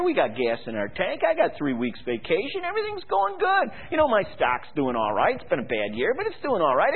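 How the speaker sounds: lightly voiced smug priest; breezy and dismissive; complacent priests mocked. Preacher mimics priests scoffing at the prophet, smug. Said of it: "the priests were saying".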